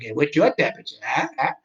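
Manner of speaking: put-on muddled echo of her accented question; confused echo. Confused patient repeats the woman's question, befuddled echo. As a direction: echo it back, lost, with questioning huhs. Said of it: "I'm not joking with her".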